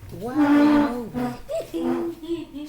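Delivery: loud, slow exasperated question; loud exasperated call. Real, not acted. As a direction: call her out, loud and drawn. Mother calls out to squirming daughter.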